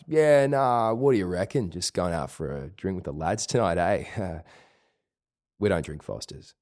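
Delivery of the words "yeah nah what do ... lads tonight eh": laid-back surfer-like Melbourne accent with flattened vowels; young Melbourne male accent. Shown as a demonstration. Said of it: "young, male accent is to kinda start".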